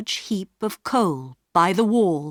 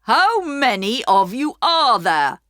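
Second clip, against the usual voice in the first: higher, louder, startled question; taken aback by more children; surprised station master; 6 semitones higher, 5 dB louder than usual. A narrator's reading. Station master hearing more voices in the dark, surprised. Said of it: "surprised to hear more voices".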